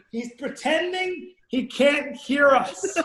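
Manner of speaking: slow, drawn-out mocking girl voice; retold teasing announcement; imitated girl. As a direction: stretch it out like a gossiping girl. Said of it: "I heard the girl go".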